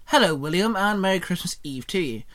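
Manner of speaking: chirpy. Acted. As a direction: chirp the greeting brightly. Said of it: "Shinon chirped".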